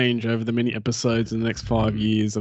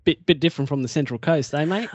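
put-on broad Aussie accent; faster than usual. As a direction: put on a broad Australian bogan accent, lightly. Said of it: "that's me doing, uh, uh, an accent".

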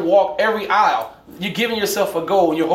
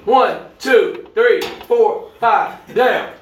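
coach voice; much slower than usual. Shown as a demonstration. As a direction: count it out like a gym coach. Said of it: "I'm gonna do that one more time".

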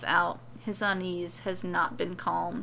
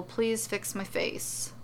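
pleading; 4 dB quieter, slower than usual. Acted. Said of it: "tries again".

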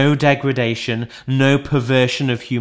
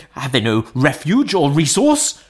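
Scrooge crying out; 3 semitones higher, 4 dB louder than usual. A narrator's reading. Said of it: "cried Scrooge".

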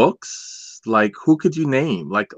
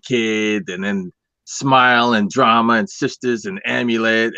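put-on old man voice. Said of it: "I'll talk in an old man voice".

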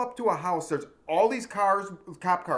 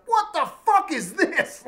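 much higher, slow, rising disbelief; incredulous cop; 12 semitones higher, 5 dB louder, slower than usual. Retold or imitated. Cop finding a spiked table leg, incredulous. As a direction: stretch out the shock at the pile. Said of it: "he's like".

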